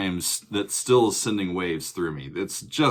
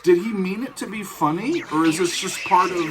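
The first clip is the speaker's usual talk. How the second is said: laughing; 9 semitones higher than usual. Real, not acted. Cracking up at an odd song.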